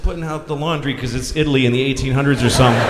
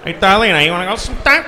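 put-on Joey's odd accent; 3 semitones higher, faster than usual. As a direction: lightly mimic a goofy guy's odd accent. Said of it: "makes noises in an accent without words".

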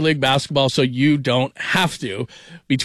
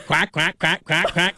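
duck quack; 3 semitones higher, slower than usual. Retold or imitated. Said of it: "he sounds like a guy like Duck".

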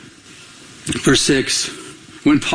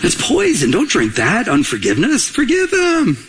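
mock alarm; 3 semitones lower than usual. Mock warning about poison.

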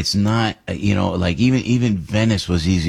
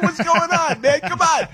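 mock exasperation. Complaining about refuel stop.

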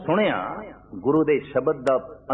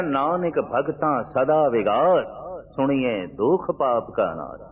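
slow, measured recitation of a verse; scripture recitation; slower than usual. Acted. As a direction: draw out the sacred verse. Quoting a scripture verse in sermon. (Gurbani ਦਾ ਠਹਿਰਾਅ ਵਾਲਾ ਪਾਠ)

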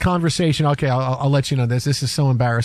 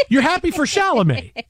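mock disbelief; 6 semitones higher than usual. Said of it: "And I go".

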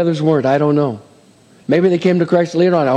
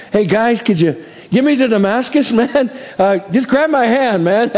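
casual, laughing plea, pitched up; joking blind Paul; 5 semitones higher than usual. Pretend. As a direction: ask the guys for a hand, chuckling.

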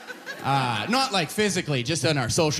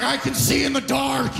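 Riddick voice; 9 semitones higher than usual. Retold or imitated. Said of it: "It's like".

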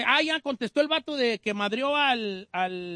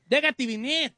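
raised, heated taunting voice; mock fighting challenge; 3 semitones higher, slower than usual. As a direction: relay the challenge, goading them on. Host relays a fight challenge.

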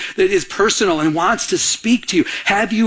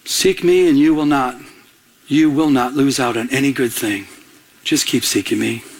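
tender God; 5 semitones lower than usual. Retold or imitated. God ministers to his heart.

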